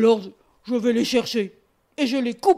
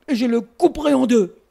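bear threat; 5 dB louder than usual. Acted. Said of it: "dit l'ours".

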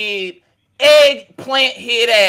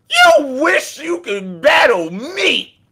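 shouted taunt; 5 semitones higher, slower than usual. Acted. Taunting Danny that he wishes he could battle, shouted. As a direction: yell the taunt and drag it out.

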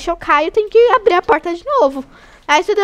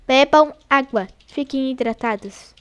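slower insistent advice. Shown as a demonstration. Streamer urging viewers to drink water, slowed and insistent. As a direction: say "Bebam água" slowly, each word set apart.

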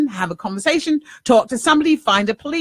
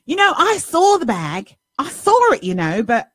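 higher-pitched retold woman in an English accent; lightly put-on English accent, raised pitch; 4 semitones higher than usual. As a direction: retell her words in an English accent, pitched up. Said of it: "I'm doing the English accent".

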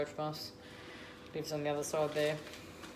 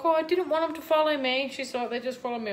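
quoting the neighbour; 9 semitones higher, 5 dB louder than usual. Retold or imitated.

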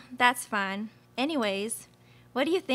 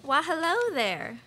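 flirty Southern belle. Acted.

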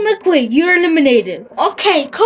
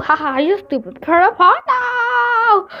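laughing wail; 3 semitones higher, slower than usual. Real, not acted. Laughs and cries at the game.

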